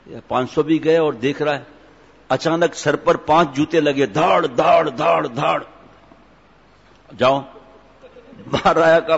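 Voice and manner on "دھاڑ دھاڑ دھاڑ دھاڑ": voiced thud-thud sound effect; imitated shoe blows. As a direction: mimic repeated thwacks in rhythm. Imitates five shoe blows landing.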